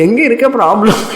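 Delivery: amused, laughing question; laughing god. Retold or imitated. Bhagavan laughs at the devotee's complaint, laughing. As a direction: chuckle as if the problem is a joke. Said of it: "Bhagavan says".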